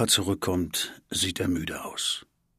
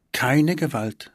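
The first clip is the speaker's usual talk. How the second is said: firm; 6 semitones higher, 5 dB louder, slower than usual. Acted. Parents answer at once.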